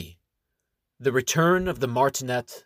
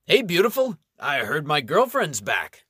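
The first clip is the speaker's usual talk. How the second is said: a lightly voiced cocky charmer, higher; flirty greeting; 4 semitones higher, 4 dB louder than usual. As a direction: call out to her like a smug flirt.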